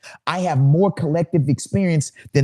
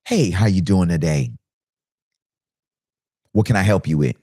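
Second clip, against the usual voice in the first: friendly greeting; 6 semitones lower than usual. Shown as a demonstration. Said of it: "the human in me says".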